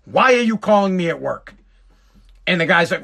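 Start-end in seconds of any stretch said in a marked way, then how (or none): 0.0-1.5 retold gruff demand, lightly heated; loud and aggressive. Father answering the principal's call at work, retold aggression. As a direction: confront the caller, mock-aggressive. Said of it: "loud and aggressive".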